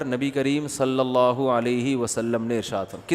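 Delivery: slow, every syllable of صلی اللہ علیہ وسلم given its weight; respectful durood. Shown as a demonstration. Mufti showing the respectful way to say the blessing, slow. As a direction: say it with reverence, unhurried. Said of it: "ارے تمیز سے بول دے یار".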